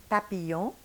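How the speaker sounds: papillon with French vowels, light unaspirated p. Shown as a demonstration. Teacher presenting the word of the week, French papillon. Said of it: "this week it is".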